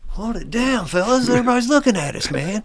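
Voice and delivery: high, loud, laughing through the words; laughing as you warn the guys to keep it down; laughing mock hush. Retold buddy hushing the group.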